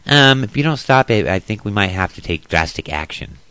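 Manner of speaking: a timid threat that trails off; Ron Paul. Retold or imitated. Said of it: "Ron Paul, go ahead".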